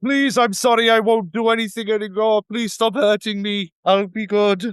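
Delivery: high, loud, yelled begging plea. Playing Howie, who shouts to the lizard folk, shouting a plea. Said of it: "Howie shouts".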